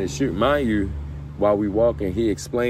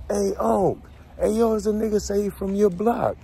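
much higher, hyped call across the tier; calling out excitedly; 13 semitones higher than usual. Retold or imitated. Inmate telling the uncle a kid from his block arrived, high excited call. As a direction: shout the news up to Unc.

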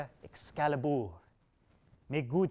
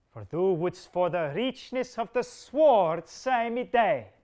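angry king; 2 semitones higher, 5 dB louder than usual. Acted. King's furious threat to Bedivere.

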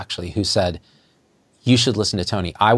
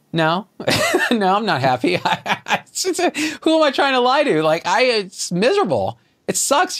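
laughing confession; 11 semitones higher than usual. Real, not acted. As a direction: laugh through it, voice jumping higher. Confessing misery while laughing.

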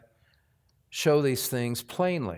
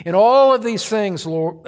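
slipping into prayer; 5 semitones higher, 7 dB louder than usual. Real, not acted. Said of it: "I start praying while I'm preaching".

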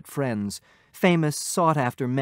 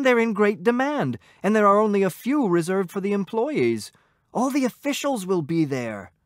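eager husband; 6 semitones higher, 4 dB louder than usual. A narrator's reading. Husband eagerly defends his invitation.

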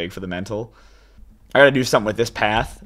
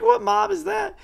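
laughing. Retold or imitated. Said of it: "I was like".

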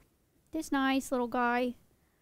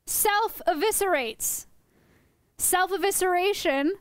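slow repeated term; 4 semitones higher, slower than usual. Shown as a demonstration. Repeats term slowly for audience.

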